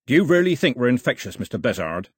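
captain barks it loud and sharp at the dock; barked. Acted. Captain barks at the agent on the dock, loud and sharp. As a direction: bark it down at the man on the dock. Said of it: "he barked".

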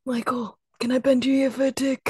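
a quick, lightly put-on Australian accent. Host reads a fan question as an Australian dad, quick and light. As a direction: rattle it off as a playful Australian dad. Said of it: "You can't do it without the Australian".

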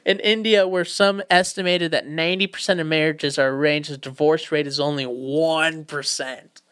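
usual speaking voice

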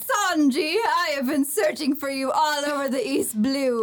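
put-on dramatic character voice; anime villainess. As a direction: declaim it like a theatrical cartoon temptress. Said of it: "She's like".

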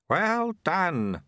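put-on high, pleased old sweeper; delighted mentor voice; beaming praise. A narrator's reading.

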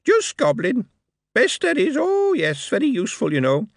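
high, ringing, sarcastic goblin; ringing sarcasm. Acted. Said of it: "in ringing sarcasm".

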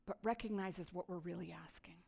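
soft whisper; hushed confiding whisper; whispered aside. Real, not acted. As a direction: lean in and whisper it.

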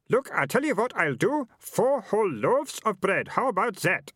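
high, loudish character voice of a haggling man; high-voiced dealer, sounding out the boy; pushy street buyer. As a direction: size up the goods in a high-pitched put-on voice.

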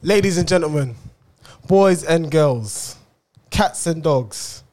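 slow, showy announcer intro. Acted. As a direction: announce it like a ringmaster.

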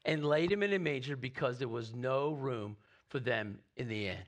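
measured Bible reading, dropping low at the close; scripture reading. Acted. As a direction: read the Christmas story steadily.

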